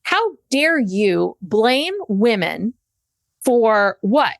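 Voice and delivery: slow, indignant rebuke with weighted words; pissed off. Retold or imitated. Woman confronting Robin over blaming women, slow and indignant. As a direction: let each word land in outrage. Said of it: "I was so pissed off".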